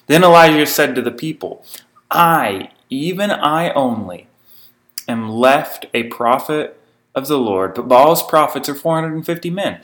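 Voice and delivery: measured, solemn Bible reading; scripture reading. Acted. Preacher reading scripture to his congregation, measured and solemn. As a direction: read the passage aloud to the congregation.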